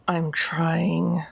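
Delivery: words pushed through clenched teeth; through gritted teeth. Acted. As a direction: hold back, jaw locked tight. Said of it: "through gritted teeth".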